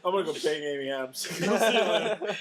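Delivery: playful hammed-up line through laughter; laughing mock voice. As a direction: toss it off while laughing. Acting out Superman leaving.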